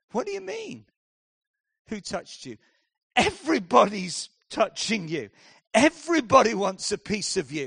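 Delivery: high, squeaky scoffing retort; mock disbelief, poking fun; exasperated disciple. Disciple mocking Jesus's question in the crush, incredulous.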